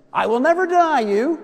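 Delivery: loud, high, vehement vow; Peter. Acted. Peter vowing loyalty to Christ, loud and emphatic. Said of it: "Peter was a man of nevers".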